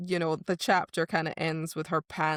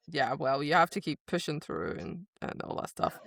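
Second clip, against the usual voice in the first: lower, gruff coach voice; low gruff trainer; 4 semitones lower, 3 dB quieter than usual. Retold or imitated. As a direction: lower gruff lecture, fading out. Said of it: "he's like".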